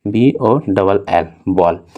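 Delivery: slow letter-by-letter reading of बॉल; slow spelling. Shown as a demonstration. Teacher slowly spells ball for students, slow. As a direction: spell each letter slowly, then the word. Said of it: "देखिए इस तरह से".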